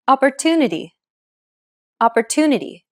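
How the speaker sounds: Opportunity with a longer stressed "tu"; Opportunity, long on the third syllable; stress-timed English. Shown as a demonstration. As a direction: stretch the "tu" in Opportunity, shorten the rest. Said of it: "stressed syllable to in opportunity is pronounced longer".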